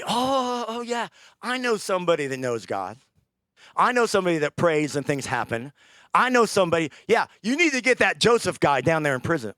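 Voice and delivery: excited high chatter, remembering Joseph; voicing the Pharaoh's butler eagerly.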